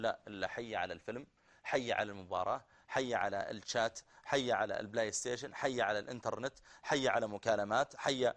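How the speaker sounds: mocking retort. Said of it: "وأنت تقول".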